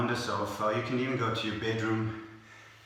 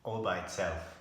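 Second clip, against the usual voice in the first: sad story voice; 6 semitones lower, 8 dB quieter than usual. Acted. Sad lonely donkey story.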